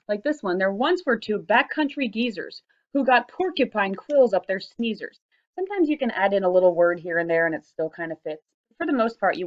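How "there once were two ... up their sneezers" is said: slow, beat-marked reading of the line; slow sing-song limerick line; rhythmic reading. Shown as a demonstration. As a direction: read it slowly to show the beat. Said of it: "a little bit of flexibility with the rhythm".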